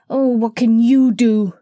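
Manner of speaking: a piglet about to cry; whining cry. A narrator's reading. Gub-Gub scoffing at the parrot, tearful whine. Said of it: "beginning to cry again".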